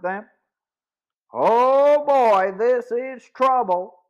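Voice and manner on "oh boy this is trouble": louder, higher cry of alarm; alarmed exclamation. Acted. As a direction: blurt it out as trouble appears. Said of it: "Joe exclaimed".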